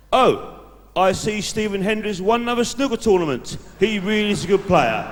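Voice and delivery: lightly put-on gentle tone for the date; caring voice. Shown as a demonstration. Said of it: "I use my caring voice".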